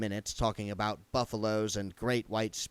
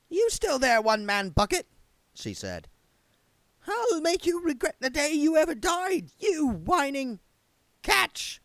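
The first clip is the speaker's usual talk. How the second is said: much higher, louder challenge to a ghost; threatening medium; 5 dB louder than usual. Acted. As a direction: hurl the threat across the veil.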